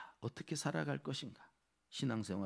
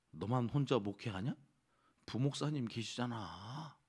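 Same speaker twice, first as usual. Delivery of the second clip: lightly voiced tempter, drawing out the endings; a hint of a needling devil; devil's persuasion. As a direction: coax with mock reasonableness. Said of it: "이러면서".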